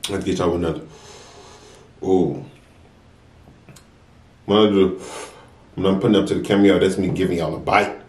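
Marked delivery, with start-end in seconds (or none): none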